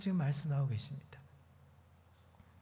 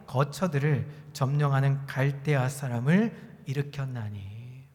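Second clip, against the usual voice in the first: slow, measured congregational recitation; scripture reading aloud; 3 semitones lower than usual. Acted. Preacher reading Habakkuk with the congregation, measured recitation. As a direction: lead the congregation through the verses deliberately.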